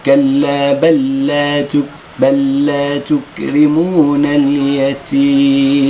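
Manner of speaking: بل لا تكرمون اليتيم intoned slowly, the two lams merged; slow recitation. Shown as a demonstration. Teacher reciting the verse in slow chant. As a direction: chant بل لا as one doubled lam. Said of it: "أقول بل لا".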